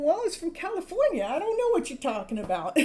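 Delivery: laughing as she retells her own answer; retold comeback. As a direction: play dumb about the accent and laugh. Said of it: "And I'm going".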